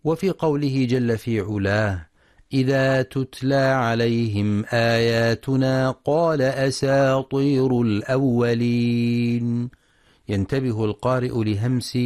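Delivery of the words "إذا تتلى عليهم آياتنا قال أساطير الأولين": slow, drawn-out melodic Quran recitation; tajweed recitation. Acted. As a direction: chant the verse slowly, stretching the vowels. (تلاوة مجودة بطيئة)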